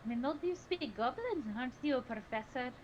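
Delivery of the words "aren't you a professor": pitched up a bit; first higher attempt at the line; higher take. Shown as a demonstration. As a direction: try the line a little higher. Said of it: "I don't like how high my voice is".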